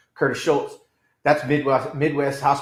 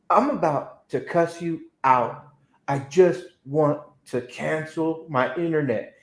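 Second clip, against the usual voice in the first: slow warning; slower than usual. Retold or imitated. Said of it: "I said".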